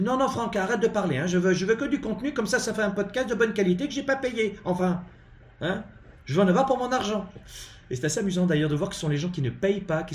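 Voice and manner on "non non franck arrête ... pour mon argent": high-pitched mock complaining listener; demanding freeloader. Host mimicking non-paying listeners demanding quality, high mock complaint. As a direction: mimic a pushy critic in a high, put-on voice. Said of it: "on me dit".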